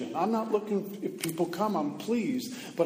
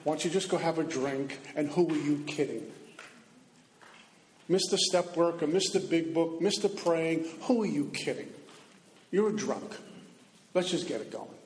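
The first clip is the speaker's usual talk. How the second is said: tempting inner voice. Retold or imitated. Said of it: "That's the same voice that says".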